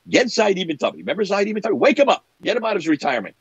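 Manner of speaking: imitating an insistent summons; urgent command. Acts out Hudayfa urging the caliph.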